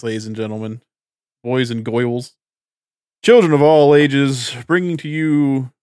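booming showman announcement; ringmaster. Pretend. Show announcer intro.

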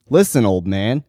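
a touch of impatience; impatient. Acted. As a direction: hurry him along, irritated. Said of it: "he says with impatience".

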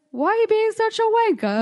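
put-on British accent. The speaker retelling her British insult to the rude guy, laughing. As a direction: toss off wanker in a fake British accent. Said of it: "with a British accent".

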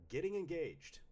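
high-pitched, bright list read-out; excited announcement. Acted. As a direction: announce it high, like happy news. Reads repeated list entries in varied voices.

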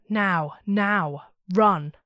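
loud, terrified urging, peaking on run; a voice in terror begging you to flee; panicked voice. A narrator's reading. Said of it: "Panic and terror plainly evident in it now".

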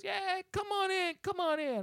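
imitating the dump worker waving him in; golf cart guy. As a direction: sing it out like a lazy attendant.

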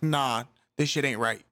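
slow, lightly put-on country accent; mild mock country accent. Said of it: "sound like they're from the country".

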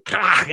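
imitated tearing bite noise; throaty "krah" biting into flesh; savage bite. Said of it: "and then he bites it".

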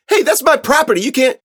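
very high, loud objection; outraged kid. Acted. Kid whose phone is snatched, outraged yell. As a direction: yell in protest as it's grabbed.

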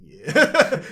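casual reply. Retold or imitated. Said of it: "It's like".

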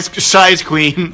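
stretched out, high and loud; sly innuendo, dragged out; slow teasing drawl. Pretend. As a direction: tease slowly, savoring it.

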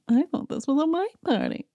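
put-on catty Dorit voice; catty Dorit impression. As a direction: sniff it out like a snob. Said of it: "starts talking smack in her confessional".

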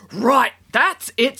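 put-on slow, seething girl's threat; furious girl. A narrator's reading. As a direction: spit it out before the fight. Kat before attacking judge.

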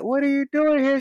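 hammed-up incredulous question, pitched very high; mock indignant disbelief. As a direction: demand an explanation in comic outrage. Acted confrontation of old lady.

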